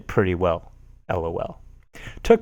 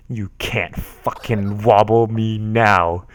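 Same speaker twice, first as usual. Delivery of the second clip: slow gloating taunt; much slower than usual. Acted. Gloating at wobbling opponent.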